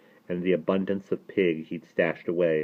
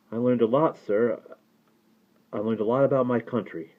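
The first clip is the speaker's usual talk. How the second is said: higher-pitched schoolboy voice; dutiful boy; 5 semitones higher than usual. A narrator's reading. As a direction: answer the rabbi like a respectful boy. Boy answers the rabbi dutifully.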